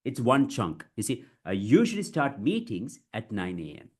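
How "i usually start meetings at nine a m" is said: measured, pause between the two phrases; chunked delivery. Shown as a demonstration. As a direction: clear model sentence in chunks. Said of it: "you have to break it".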